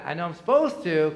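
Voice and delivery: dutiful admission. Retold or imitated. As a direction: state it plainly as an obligation. Pastor admits reading out of duty.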